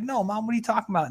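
high, quick fake-innocent denial; mock innocent. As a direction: play dumb, fast and high. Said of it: "I was like".

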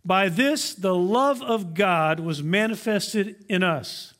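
slow, deliberate reading of scripture. Shown as a demonstration. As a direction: read the verse slowly and weightily. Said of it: "says this".

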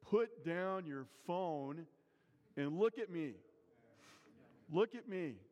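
Jesus urging a modern crowd to put phones down; urgent command. Retold or imitated. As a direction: insist they look up from their phones. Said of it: "he would say".

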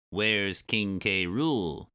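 lightly voiced giant bumblebee; slow, drawn-out bee character question. Giant bumblebee asking a Kremling, lightly voiced creature.

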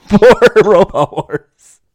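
slow, loud, stretched-out words; drawn-out commentator voice. Pretend. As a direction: drag it out like a commentator. Joking Attenborough commentary voice.

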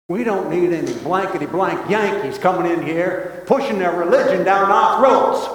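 put-on gruff West Texas old codger, building to a shout; an angry West Texan rancher yelling at the door; West Texas accent. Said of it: "He said with his West Texas accent".

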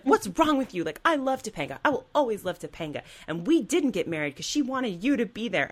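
lightly voiced whiny teenager; mock Corey. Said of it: "He's like".

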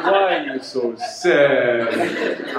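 loud, very slow, stretched-out playful wail; teasing mock plea. Monk coaxing sulking Arseni to smile, teasing wail. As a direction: drag out every word in mock lament.

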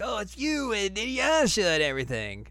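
mock child Shippo; high child voice. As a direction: chirp it like a little fox kid. Voicing Shippo.

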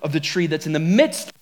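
measured Bible reading to the congregation; scripture reading. Acted. Pastor reading Genesis to the church, measured and solemn.

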